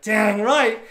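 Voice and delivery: loud, high, gleeful agreement; hammed-up triumphant reply; retold triumph. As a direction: crow it proudly. Retells proud, gleeful reply.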